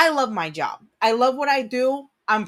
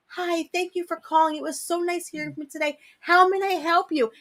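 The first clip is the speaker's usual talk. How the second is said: higher, sweet customer-service greeting; work phone voice; 5 semitones higher than usual. Shown as a demonstration. Answering a customer call in a sugary phone voice. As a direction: chirp it like a polite call-center rep. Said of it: "Like, I'll talk to him like this".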